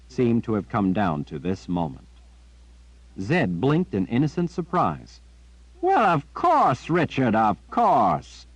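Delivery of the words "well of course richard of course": put-on high, slow gentle old man; gentle Zed. A narrator's reading. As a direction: soothe him kindly, slowly. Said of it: "He spread his arms as he spoke in a gentle voice".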